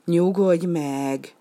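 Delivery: slow soothing calm down; drawn-out reassuring nyugodj meg. Acted. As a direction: penguin slowly soothing the crying duck. Penguin calms the duck.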